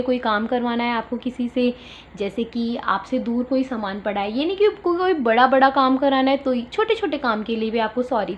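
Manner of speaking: ordinary talk, nothing marked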